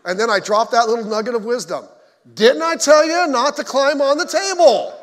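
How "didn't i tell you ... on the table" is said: scolding dad. Retold or imitated. Father scolding son after fall.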